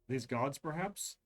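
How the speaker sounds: measured, atmospheric scene setting; game master narration. A narrator's reading. Game master sets the haunted scene, ominous narration. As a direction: set the eerie ruined city for the players.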